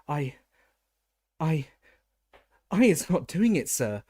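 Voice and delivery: high, squeaky elf voice, loud and panicked; a terrified elf gasps out her denial; gasping house-elf. A narrator's reading. House-elf Winky gasping her innocence to the wizard, high and squeaky. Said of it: "Winky gasped".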